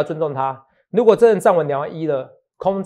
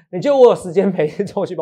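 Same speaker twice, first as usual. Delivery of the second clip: laughing. Real, not acted. Repeats the question, laughing.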